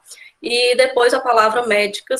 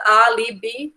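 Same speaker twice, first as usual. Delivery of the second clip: álibi split into syllables, stress on the first; álibi as Á-li-bi, first syllable strong; slower than usual. Shown as a demonstration. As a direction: say álibi slowly, leaning on Á. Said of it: "dividindo aí".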